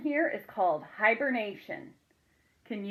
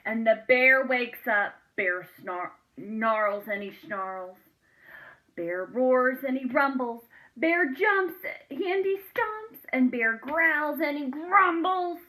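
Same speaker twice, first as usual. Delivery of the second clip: louder and higher, dramatic; building excitement; 4 semitones higher, 7 dB louder than usual. A narrator's reading. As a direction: boom it out as the bear wakes. Narrating the angry bear.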